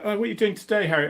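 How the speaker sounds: a hint of a chirpy mum; mum's voice. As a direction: mum asking her son about his day.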